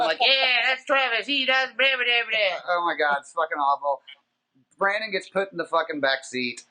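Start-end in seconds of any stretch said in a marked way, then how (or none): 0.2-2.6 high, gabbling mock know-it-all; hammed-up helpful blabbing; eager butting in. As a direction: jump in to answer for someone else. Retold eager answering for others.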